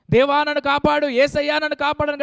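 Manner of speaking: a man on a branch calling out to God, fairly loud; preacher acting out the man's loud plea to be saved; retold shout for help. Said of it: "గట్టిగా అరుస్తున్నాడు".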